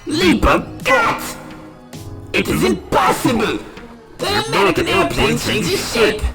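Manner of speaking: stunned enemy commander's outburst; aghast villain. Acted. Enemy commander watches plane transform, aghast. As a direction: cry out in disbelief.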